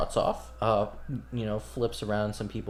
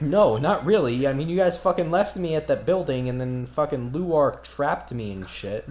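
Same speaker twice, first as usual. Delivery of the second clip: indignant barmaid; 2 semitones higher than usual. Acted. Shali complains angrily.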